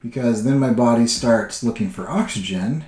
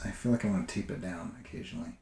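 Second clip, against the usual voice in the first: talking while holding breath; 2 semitones lower, 14 dB quieter than usual. Real, not acted. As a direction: tight breath-held murmur. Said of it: "sorry, I'm holding my breath".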